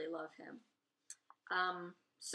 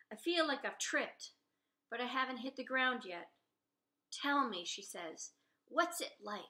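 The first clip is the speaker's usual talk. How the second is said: steady read-aloud narrator voice; story narration; 2 semitones higher than usual. A narrator's reading. Author reading her novel's first chapter aloud, narrating. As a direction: read the chapter like telling it to listeners.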